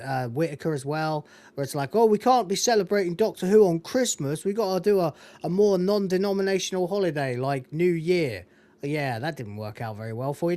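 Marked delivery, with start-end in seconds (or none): 1.9-8.5 high sneering imitation of the producers; mocking voice. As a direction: mimic them with a sneer. Mocking the BBC's reasoning.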